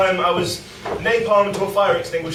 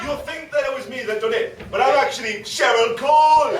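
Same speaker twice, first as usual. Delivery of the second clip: put-on Geordie accent; 5 semitones higher than usual. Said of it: "Geordie accent".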